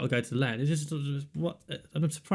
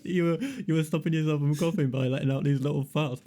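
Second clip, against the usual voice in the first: laughing; 4 semitones higher than usual. Real, not acted.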